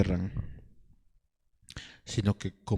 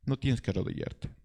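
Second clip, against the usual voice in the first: much softer, closing the quote; soft repeat; 6 dB quieter than usual. Retold or imitated. Absalón repeats his offer to the people, softly. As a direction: let it fall quietly. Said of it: "Absalón dice".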